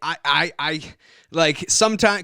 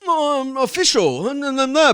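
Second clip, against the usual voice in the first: mock self-promoter; 10 semitones higher than usual. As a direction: imitate someone putting on an act, pitched up. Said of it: "you'd be a little bit more like".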